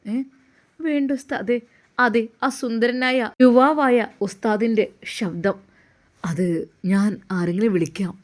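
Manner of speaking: lightly voiced Ustad urging the girl to get up; young Ustad.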